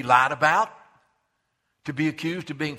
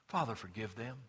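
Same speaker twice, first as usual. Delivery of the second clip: soft prayer; 4 semitones lower, 8 dB quieter than usual. Acted. Repeating Jesus' prayer.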